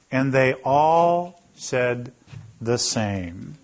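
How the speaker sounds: slow, leaning on the word all; they ALL said, slow and pointed; stress on all. Shown as a demonstration. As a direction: drag out all to make them notice. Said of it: "notice this next line".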